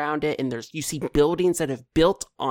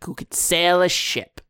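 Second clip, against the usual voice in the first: laughing goblin; 2 semitones higher than usual. Acted. Goblin mocks Morgan through laughter.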